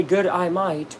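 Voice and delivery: lightly Australian-sounding phrase; a hint of put-on Australian; mock Australian accent. Shown as a demonstration. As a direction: demonstrate a slight Australian twang. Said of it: "You cannot say".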